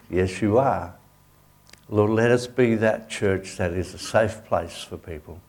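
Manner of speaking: closing prayer over the congregation. Acted. Continues the prayer.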